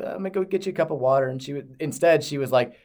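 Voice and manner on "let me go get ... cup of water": sweet Kentucky voice. Pretend. Imagined girlfriend offering hungover boyfriend water, sweet Kentucky voice. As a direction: put on a sweet, higher-pitched little Kentucky voice. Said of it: "sweet little Kentucky voice".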